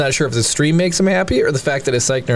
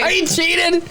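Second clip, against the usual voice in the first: much higher, squeaky confession; high squeal; 14 semitones higher than usual. Real, not acted. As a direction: squeak it out guiltily. Confessing playfully.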